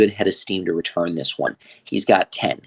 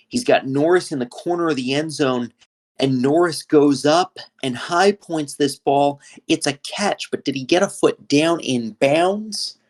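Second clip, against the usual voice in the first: rising excitement on the catch; 6 semitones higher than usual. Real, not acted. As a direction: voice climbs higher as the catch unfolds. Leaping catch near the sideline.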